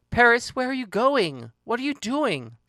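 high, anxious questions; urgent questioning. Acted. She questions Paris who is leaving, urgent and high.

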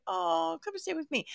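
high, softened coo; mock tender invitation. Host replays inviting the girl to stay, high cooing. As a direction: coo it like taking in a stray. Acts out her own eager invitation.

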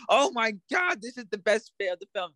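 high, hammy babbling parody; mock character voice. Host parodying a character's confusing exposition, high hammy babble. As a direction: rattle off the plot like a silly character. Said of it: "he was like".

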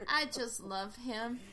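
imitating an old granny's drawl; lightly voiced old granny; granny's accent. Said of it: "use her accent".

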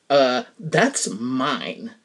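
drawn-out, slow, a touch of ownership; a slowed mock version of the pushier line; slow possessive claim. Shown as a demonstration. Telling the stranger the cart is hers, slowly possessive. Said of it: "notice I didn't say".

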